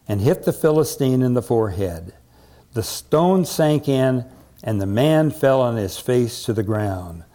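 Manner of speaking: deliberate, emphatic Bible reading; dramatic story narration. A narrator's reading. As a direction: build to the victory with weighty phrasing. Reads Bible story aloud.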